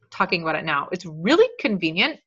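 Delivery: hiccuping between words; talking through hiccups. Real, not acted. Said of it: "Sorry that I have the hiccups".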